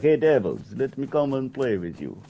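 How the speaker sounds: put-on Dracula-like accent. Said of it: "He sounds more like Dracula".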